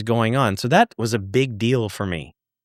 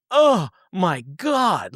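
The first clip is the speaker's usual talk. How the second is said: excited gasp; 7 semitones higher, much slower than usual. Retold or imitated. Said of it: "who was all excited, but also in shock".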